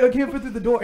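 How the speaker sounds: loud, high Boston bro voice; big dumb Boston gym bro; Boston accent. Retold or imitated. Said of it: "he's like".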